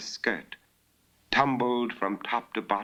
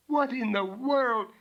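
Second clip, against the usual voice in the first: astonished; 3 dB louder than usual. Acted. Innkeeper's astonished question.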